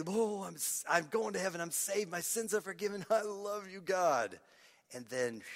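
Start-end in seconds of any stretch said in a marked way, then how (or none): 0.1-4.4 higher, lightly gushing new convert; mock new-believer enthusiasm. New believer telling God of love, mildly gushing. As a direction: rattle off joy like a fresh convert.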